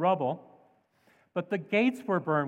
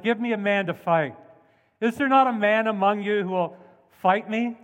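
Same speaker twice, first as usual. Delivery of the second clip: a taunting giant, called out a bit louder; mocking giant's challenge; 3 semitones higher, 5 dB louder than usual. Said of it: "was mocking the soldiers".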